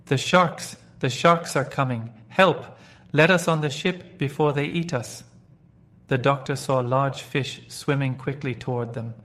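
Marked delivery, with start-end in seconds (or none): 0.1-5.2 loud, high panicked cries for help; crying out in terror. Acted. Pirates in the water begging to be saved, terrified shouting. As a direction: scream for rescue as the sharks close in. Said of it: "they all cried out in terror".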